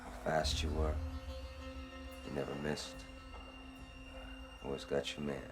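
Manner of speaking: deep, measured avenger's speech; low menace. Acted. Avenger addresses victim after long wait.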